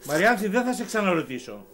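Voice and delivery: angry demand. Acted. Father demands who hurt daughter.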